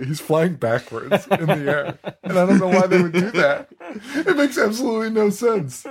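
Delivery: real laughter through the words, pitch climbing high; laughing in disbelief. Real, not acted. Co-host baffled by the backwards-flying leprechaun effect, laughing in disbelief.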